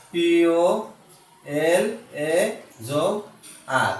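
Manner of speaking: slow spelling-out, letter by letter; drawn-out letters, separated for a learner; broken into parts. Shown as a demonstration. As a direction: spell it slowly with gaps between the letters. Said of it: "ভেঙে ভেঙে উচ্চারণ করার".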